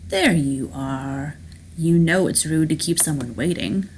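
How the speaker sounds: lightly voiced unruffled villain; self-assured schemer Rourke, gloating. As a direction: greet the monster like a late guest.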